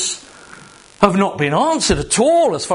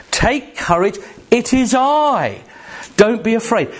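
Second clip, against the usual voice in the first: reassuring; 7 semitones higher than usual. Acted. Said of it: "He immediately reassures them with his voice".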